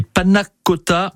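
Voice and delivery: put-on panna cotta with a mild, playful Italian accent; a hint of Italian accent on panna cotta. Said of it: "mon accent italien".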